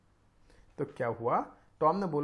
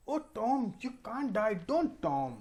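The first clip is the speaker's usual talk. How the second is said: pleading brother; 3 semitones higher, much slower than usual. Acted. Sid pleading in reading.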